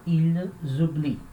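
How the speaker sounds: "ils oublient" ending on I; silent weak ending. Shown as a demonstration. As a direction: leave the ENT of "oublient" unspoken. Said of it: "última sílaba é fraca".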